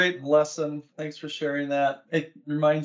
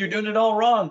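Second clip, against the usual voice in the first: higher and louder, a flat blunt verdict; blunt master coach; 7 semitones higher, 5 dB louder than usual. Retold or imitated. Master coach telling the tennis coach he is doing it all wrong, blunt and loud. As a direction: hand down the correction like a senior coach. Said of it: "and he said".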